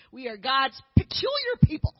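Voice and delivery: rally the room with it; rallying cheer. Real, not acted. Speaker cheers for missionary women to the audience, shouting.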